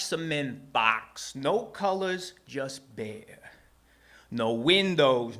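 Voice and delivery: theatrical rhyming storyteller, drawn-out words; measured, emphatic spoken-word delivery; story narration. A narrator's reading. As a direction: savour the rhymes with dramatic pauses. Reads second rhyming story.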